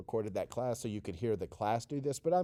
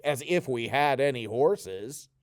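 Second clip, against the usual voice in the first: super sarcastic. Shown as a demonstration. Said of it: "Then super sarcastic".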